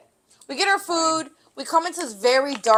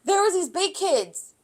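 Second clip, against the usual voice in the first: higher, laughing fake excuse; laughing retelling; 6 semitones higher, 6 dB louder than usual. Kids' fake story to the police, higher laughing. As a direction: tell the lie, laughing. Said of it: "the story we told to the police officer".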